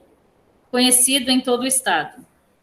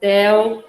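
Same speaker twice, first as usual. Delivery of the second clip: "del" set apart as its own syllable. Shown as a demonstration. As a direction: dictate "del" alone and evenly.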